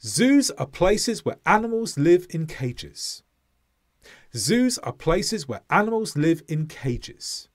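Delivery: "Zoos", "places", "animals", "live", "cages" on the beat, small words squashed; stress timed rhythm. Shown as a demonstration. Teacher modelling an example for learners to repeat, stress-timed. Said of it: "Listen to these".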